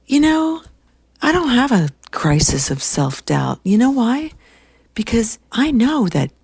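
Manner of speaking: imitating a firm, high-pitched retort; pointed, pitch leaping on the challenge; no-BS secretary. Secretary answering older woman about self-doubt, no-nonsense. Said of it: "she's like, no B S".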